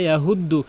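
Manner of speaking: "ইয়াহুদ্দু" with plain h; common mispronunciation. Shown as a demonstration. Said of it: "মারাত্মক লেভেলের ভুল". (সাধারণ হ দিয়ে "ইয়াহুদ্দু")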